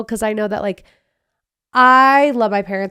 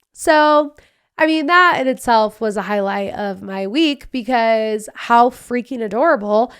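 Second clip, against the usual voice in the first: ordinary delivery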